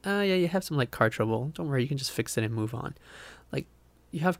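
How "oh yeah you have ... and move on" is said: light dismissive tone; breezy dismissive. Pretend. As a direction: brush it off like car trouble. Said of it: "It's not just like".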